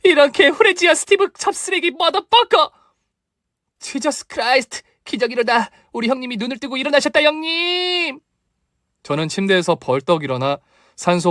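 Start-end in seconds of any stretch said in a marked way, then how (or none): 0.0-2.7 shrieked high insult; wild cursing outburst; furious curse. Acted. Furious curse to rouse patient. 3.8-8.2 high, fast amazed exclaiming; overjoyed disbelief; astonished joy. Acted. Miracle, patient wakes.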